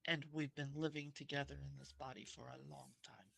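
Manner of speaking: soft, hushed confiding voice; whisper. Acted. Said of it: "get right in front of her face and whisper again".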